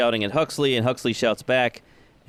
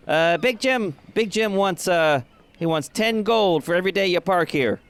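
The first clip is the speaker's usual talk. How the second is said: higher, hesitant voice; a timid man asking for money; nervous dock worker; 8 semitones higher than usual. Acted. Dock worker nervously tells Mama Sass the fee, voice up high.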